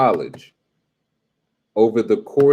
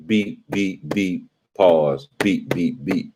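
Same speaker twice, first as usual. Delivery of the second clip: imitated beep; much slower than usual. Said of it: "just the smoke detector going off".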